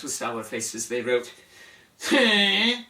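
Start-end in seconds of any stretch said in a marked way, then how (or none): 2.0-2.8 a sudden, louder and higher "Huh?"; the scribes echo him, loud and baffled; scribes' loud huh. Acted. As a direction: blurt it out like a puzzled echo.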